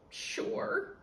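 unvoiced, scared "Sure"; nervous gulp. Scared kid answers the T-Rex, breathy and unvoiced. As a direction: push it out past a gulp. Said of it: "I say, gulping hard".

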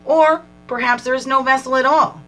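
measured, reflective reading voice; card reading. Acted. Reads oracle card text aloud.

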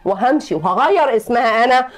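angry threat. Acted. Wife threatens to leave.

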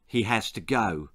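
low, quiet and cold; cold verdict. Acted. Ginger deciding on the old man's fate, coldly. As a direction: pass sentence coldly, without raising the voice. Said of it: "Ginger said coldly".

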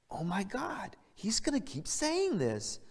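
high, slow mock groaning aside; acted onlooker cringing under their breath; embarrassed dismay. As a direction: pitch it up and drag it out in dismay. Embarrassed crowd staring at shoes.

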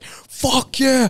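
high-pitched retold victory cheer; hyped-up celebration. Fighter celebrating a scored takedown on the mat, hyped up. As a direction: cry it out like you just scored. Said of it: "I was just way too hyped up".

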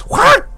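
sharp yelp. Pretend. Repeated hype catchphrase. (높게 확 외치기)

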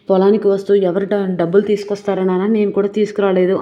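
son's loud refusal to his father; loud retort. Retold or imitated. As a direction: snap back at the father, loud. Son refuses drunk father money.

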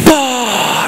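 high burst imitating a crowd erupting; crowd roar. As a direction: erupt like a whole arena.

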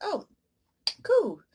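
high, loud inner scream with a laugh; laughing mock shout; mock panic. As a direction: cry out to escape your own head. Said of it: "you're like".

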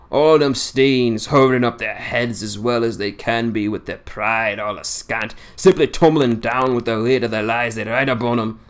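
lightly voiced old seaman in thick dialect, scornful; a hint of a crusty old fisherman railing against lies; old Yorkshire sailor. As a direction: grumble it like a cantankerous old salt holding court. Old Swales ranting about tombstones.

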